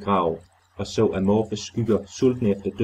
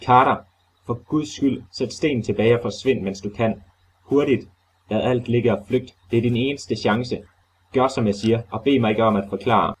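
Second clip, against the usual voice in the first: urgent, frantic warning, slightly raised; wild agitation; 3 semitones higher than usual. Acted. Trapped Warren warns Carter to flee, in frantic agitation. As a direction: beg him to flee in a rush. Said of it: "i en tone af vild sindsoprivelse".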